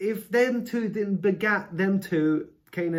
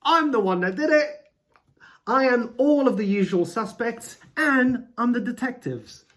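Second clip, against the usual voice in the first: mock God voice; 6 semitones higher, 5 dB louder than usual. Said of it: "God's going".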